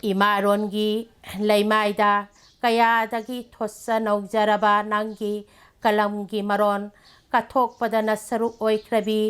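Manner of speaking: declaimed poem of tribute, evenly paced; poem recitation. Acted. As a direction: address the honoured woman in measured, separated phrases. Recites second poem of praise.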